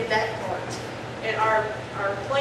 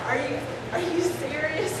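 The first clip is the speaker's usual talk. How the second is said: higher, incredulous retold question; mock disbelief; 7 semitones higher than usual. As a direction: re-enact stunned disbelief, pitched up. Retold disbelief at a lower fee.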